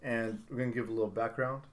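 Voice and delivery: Sunday school teacher intro; preacher voice. Pretend. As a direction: announce it like a preacher. Mock sermon opening.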